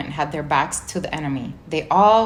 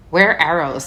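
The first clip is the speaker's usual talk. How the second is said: sudden alarm; 6 dB louder than usual. Acted. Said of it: "said Poggin suddenly".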